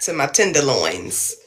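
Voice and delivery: slow, low and sultry. Pretend. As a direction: drawl it out low and seductive. Joking about the sexy voice.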